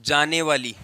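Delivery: low, halting phrases with long pauses; slow dictation. Real, not acted. Teacher writing out the current rule, low slow dictation.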